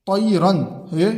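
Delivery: drawn out, word by word; slow pointing read; slow recitation. Shown as a demonstration. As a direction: point out the tanween slowly. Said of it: "तनवीन है".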